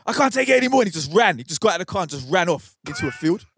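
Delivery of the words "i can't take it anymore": high, strained despair; desperate cry. Retold or imitated. Friend cracks before running off. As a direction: break down, can't take it. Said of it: "He goes".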